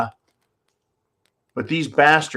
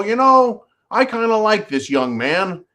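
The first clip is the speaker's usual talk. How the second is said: a breezy, doting judge waving the case away; sarcastic judge impression; mock judge; 6 semitones higher than usual. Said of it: "throw it out and go".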